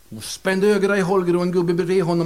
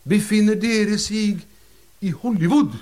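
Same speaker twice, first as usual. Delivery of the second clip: solemn medium; 5 semitones higher than usual. Acted. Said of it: "sa rösten".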